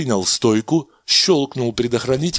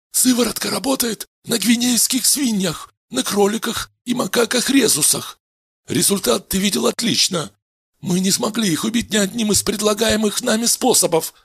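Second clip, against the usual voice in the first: much higher, assured scientist voice; calm doctor; 13 semitones higher than usual. Acted. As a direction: reassure the patient. Doctor explains results.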